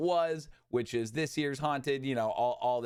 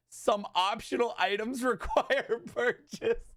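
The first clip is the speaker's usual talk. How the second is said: laughing while reading; 7 semitones higher, slower than usual. Real, not acted. Reading tweet in disbelief.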